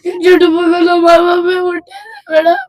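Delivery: crying and pleading, voice breaking. Real, not acted. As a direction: sob through the words to madam. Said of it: "ఉండు, ఉండు, ఏడవ పెట్ట". (ఏడుస్తూ వేడుకోలు)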